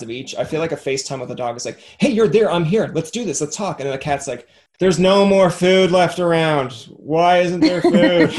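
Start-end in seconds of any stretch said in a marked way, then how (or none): 2.0-3.8 eager dog voice. Retold or imitated. 4.8-8.3 slow, loud put-on cat voice. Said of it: "you have a good cat voice".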